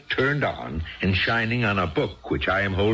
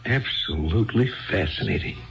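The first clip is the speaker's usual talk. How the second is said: sarcastic; 3 semitones higher than usual. Acted. Husband mocks her dull story.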